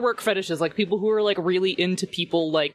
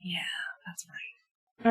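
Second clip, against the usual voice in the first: whispering; 9 dB quieter, much slower than usual. Pretend. ASMR bit continues.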